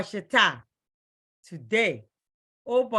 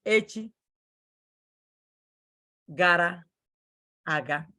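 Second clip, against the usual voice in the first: word by word. Shown as a demonstration. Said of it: "some people say".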